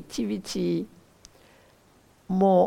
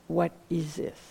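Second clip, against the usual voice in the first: soft question on the exhale; quiet, settling question; asked on the out-breath; 3 semitones lower, 6 dB quieter than usual. Shown as a demonstration. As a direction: let the words sink with the breath. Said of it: "as you breathe out".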